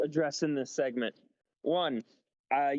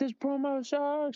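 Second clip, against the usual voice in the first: mock shrill, very high heckling scream; 11 semitones higher than usual. Retelling a fan in the crowd who booed the promo: imitating a screaming fan. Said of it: "screaming and stuff".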